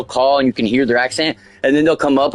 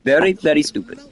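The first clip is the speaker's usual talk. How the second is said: put-on Indian accent. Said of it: "Indian accent".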